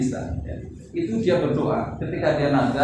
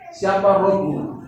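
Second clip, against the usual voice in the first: iblis asking; 4 semitones higher, 3 dB louder, much slower than usual. Acted. Iblis interrogating newborn.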